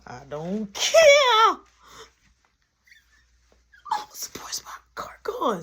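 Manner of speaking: high, drawn-out tearful wail; hammed-up crying outburst; mock wailing. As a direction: wail it out, then squeak through the tears. Acted wail over missing car.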